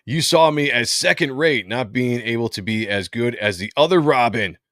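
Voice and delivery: a touch of bitchy reproach. Acted. Reading a villain's grievance to Batman, mildly bitchy. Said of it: "very bitchy".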